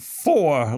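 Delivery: "for" with a Southern dropped r; mock Southern pronunciation. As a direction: imitate a drawn Southern "for", like "foh". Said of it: "like that in her entire life".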